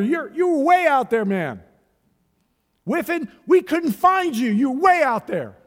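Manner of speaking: building preacher's cry, names called out; preaching building to a shout. Acted. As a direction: call each listener out, rising to full force.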